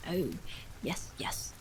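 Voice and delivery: breathy, voiceless murmur under his breath; muttered to himself, barely aloud; whispering to himself. A narrator's reading. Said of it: "he was whispering to himself".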